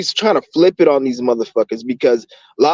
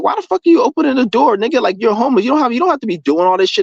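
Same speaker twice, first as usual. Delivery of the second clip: retold chiding; 7 semitones higher, faster than usual. Retelling chiding a homeless door-opener.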